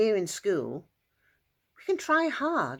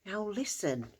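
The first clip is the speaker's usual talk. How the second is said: soft whisper; 3 semitones higher, 5 dB quieter than usual. Acted. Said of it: "whispered Jesus".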